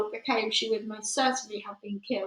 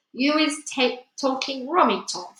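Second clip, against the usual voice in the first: higher-pitched protesting giant voice; lifted, scoffing character voice; plucky giant; 4 semitones higher, 4 dB louder than usual. Acted. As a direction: retort with new-found bravery. Giant retorts, growing braver.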